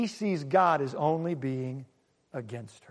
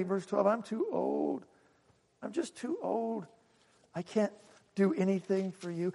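put-on much softer, resigned old woman pleading; weary sorrow; 5 dB quieter than usual. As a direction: send them away with a tired, broken voice. Naomi sending daughters-in-law away.

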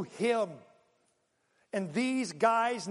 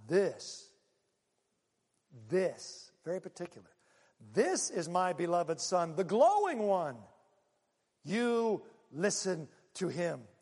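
slow, measured voice of the Father; deliberate, weighty divine voice; lightly voiced solemn father speaking from a cloud; slower than usual. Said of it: "suddenly this voice comes".

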